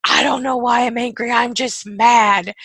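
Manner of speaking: hammed-up grumpy insistence; acted mad. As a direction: play at being mad without knowing why. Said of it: "And you're like".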